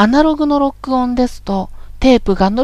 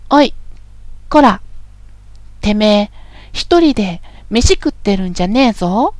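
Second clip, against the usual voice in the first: rough male speech. Shown as a demonstration. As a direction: bark it like a thug. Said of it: "今からかなり乱暴な言葉遣いをしてみます". (乱暴な男言葉で怒鳴る)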